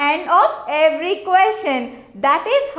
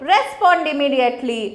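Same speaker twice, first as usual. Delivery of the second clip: Respond immediately given as a firm order; firm teacher command; 2 semitones lower than usual. Shown as a demonstration. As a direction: bark it out like a teacher giving an order. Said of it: "That is ordering, commanding".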